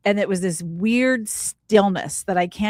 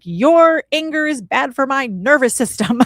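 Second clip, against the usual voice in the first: higher, louder, prissy put-down; mock prim complaint; 7 semitones higher, 6 dB louder than usual. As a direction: play it as a comic self-righteous scold. Mock scolding her raging husband.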